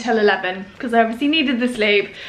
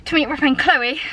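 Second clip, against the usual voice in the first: out of breath. Real, not acted. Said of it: "I'm so out of breath".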